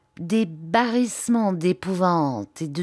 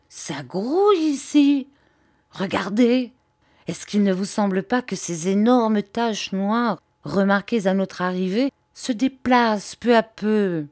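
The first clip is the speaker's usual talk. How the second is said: crié; 3 semitones higher than usual. Acted. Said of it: "cria la bergère".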